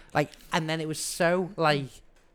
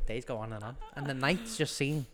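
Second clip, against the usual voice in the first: monologued song verse; 2 semitones lower, 4 dB quieter than usual. Acted. Podcaster quoting the song with a singer, monologued verse. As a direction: recite the verse as a monologue, line by line. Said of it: "just monologued the verse".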